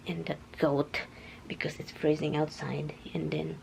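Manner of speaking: unvoiced whisper. Real, not acted. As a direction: breathe it out quietly. Unvoiced aside.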